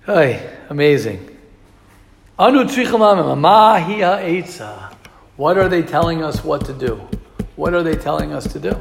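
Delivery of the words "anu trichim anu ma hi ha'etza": pleading. Retold or imitated. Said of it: "the way he's saying it".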